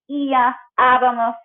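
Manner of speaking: Ia and abamos with the accented I and first A lifted; slow, deliberate stress on the I of Ia and first A of abamos; accented syllables stressed. Shown as a demonstration. Teacher showing the voice goes up with the accent, accented syllables stressed. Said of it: "voice goes up with the accent".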